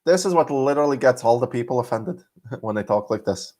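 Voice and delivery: put-on comic Irish accent. Shown as a demonstration. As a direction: show off a joking Irish brogue. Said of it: "You should hear my Irish accent".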